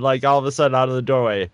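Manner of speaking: ordinary talk, nothing marked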